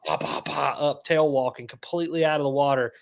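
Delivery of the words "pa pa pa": imitated splashes. Imitates tarpon tail walking.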